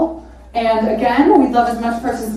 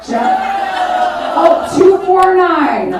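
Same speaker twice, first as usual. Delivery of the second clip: calling out; 5 semitones higher, much slower than usual. Real, not acted. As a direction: shout the number across the room. Calling out a bidder number.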